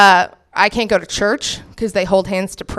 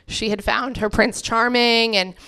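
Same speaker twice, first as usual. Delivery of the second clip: normal talking voice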